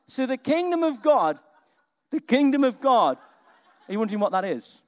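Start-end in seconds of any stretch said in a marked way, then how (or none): 0.1-3.2 preaching proclamation. Real, not acted.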